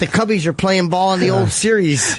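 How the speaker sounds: put-on Chicago accent; broad Chicago local talk. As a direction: brag in a hammed-up Chicago voice. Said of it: "Chicago Edgar".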